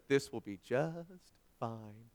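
very slow, soft resigned line; mock resigned. Telling the nice couple nearby, mock resigned. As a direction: drag it out, resigned. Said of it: "and I said".

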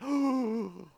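imitated kids' gasp; a hammed-up sharp gasp; mock shocked gasp. Children shocked at their sister being told off, gasp. Kids react to the rebuke.

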